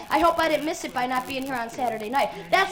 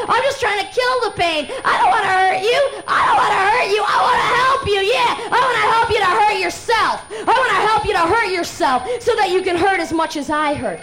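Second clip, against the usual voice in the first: voice in his ear; 5 semitones higher, 4 dB louder than usual. Acted. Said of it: "what he's whispering in my ear".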